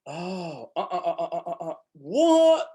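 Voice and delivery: high sing-song wordless grunts; wordless tune of questions; melodic grunts. Shown as a demonstration. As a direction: talk in melody, no words. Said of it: "pre-linguistic melodic ways".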